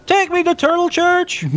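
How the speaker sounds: high laughing voodoo voice; voodoo person voice. Retold or imitated. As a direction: squeal it out, laughing. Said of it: "a voodoo person says".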